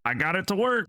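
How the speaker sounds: very high, thin gleeful squeak; a tiny inventor crowing from on high. A narrator's reading. Little Azura to those below, thin high crowing. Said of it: "the Azura's thin voice".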